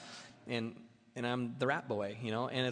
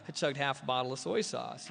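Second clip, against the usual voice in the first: shocked realisation; 2 semitones higher, slower than usual. Retold or imitated. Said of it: "And I thought".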